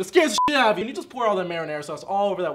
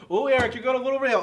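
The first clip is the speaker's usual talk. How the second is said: other voice; 4 semitones higher than usual. Acted. Voicing someone commenting on him.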